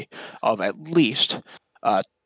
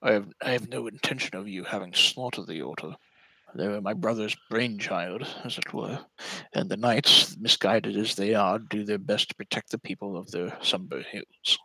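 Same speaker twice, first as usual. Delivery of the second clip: flustered denial easing into measured explanation; lightly acted lich, earnestly defending the knights; lightly voiced Renwick the lich; 4 dB quieter than usual. Game master plays Renwick.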